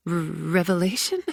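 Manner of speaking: stumbling over the first sound; stammering. Acted. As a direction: stammer it out, flustered. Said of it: "I stammered".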